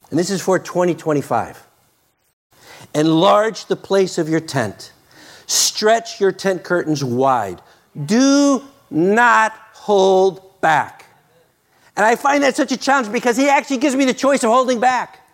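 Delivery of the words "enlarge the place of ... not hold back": scripture reading. Acted.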